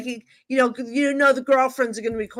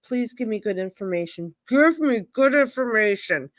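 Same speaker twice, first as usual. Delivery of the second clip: mock plea. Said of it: "so I'm saying".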